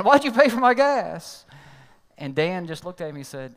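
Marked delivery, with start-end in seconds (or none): 0.0-1.4 slower, louder, higher repeated demand; still mad. Retold or imitated. Driver repeating his question to Dan, slow furious demand. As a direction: hammer each word out in disbelief. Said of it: "He's still mad".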